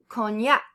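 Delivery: cognac stressed on its final syllable, cogNAC; stress on last syllable. Shown as a demonstration. Teacher giving learners an example, stressed cogNAC. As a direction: punch the end of cognac. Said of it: "stress on the very last syllable".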